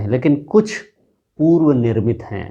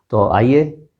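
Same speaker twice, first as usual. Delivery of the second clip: playful whisper; slower than usual. Acted. Teacher whispers to the viewers to come along. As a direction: lean in and whisper it.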